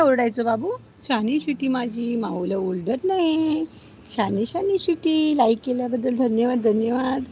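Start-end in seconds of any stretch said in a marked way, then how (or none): 1.1-5.4 slow, drawn-out praise for a dog; cooing pet talk. Real, not acted. Owner praises the dog for leaving the cat alone, cooing. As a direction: coo it with stretched endings.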